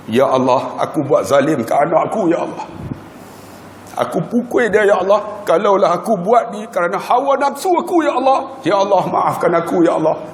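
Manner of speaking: pleading prayer, voice rising; father praying for forgiveness, a touch of tears; tearful prayer. Retold or imitated. Father praying over beaten son.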